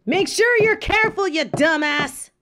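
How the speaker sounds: high, fast mock-scolding; playful teasing. Real, not acted. Teasing a friend as he heads off. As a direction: tease him affectionately while warning him.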